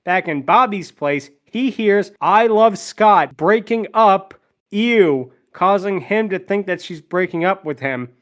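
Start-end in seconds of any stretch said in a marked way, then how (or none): 2.2-5.3 raised, slow, choppy phone words; slow fragments of a call, pitched up; broken-up call. Acted. Girlfriend heard by Bobby over a bad connection, breaking up. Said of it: "her bad connection breaks her up".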